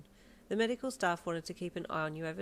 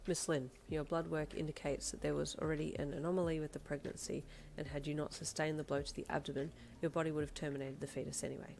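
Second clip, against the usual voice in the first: understated blunt doctor, a little softer; 2 semitones lower, 4 dB quieter than usual. Acted. Doctor giving blood results, blunt and factual. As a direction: stick to the facts, no emotion. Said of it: "the doctor said bluntly".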